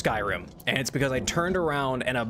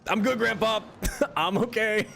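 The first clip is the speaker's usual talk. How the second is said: imitating younger self; 8 semitones higher than usual. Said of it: "I was like".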